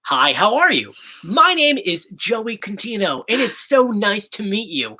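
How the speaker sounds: slow, carefully enunciated introduction; measured professional presenter voice; accent-free media voice. Shown as a demonstration. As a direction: demonstrate a polished on-air greeting, slowly. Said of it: "it's very hard to talk like this".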